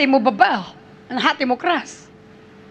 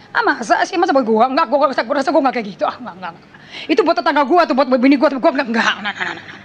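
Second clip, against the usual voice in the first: mock denial; 4 semitones lower, faster than usual. Mocking a complacent churchgoer.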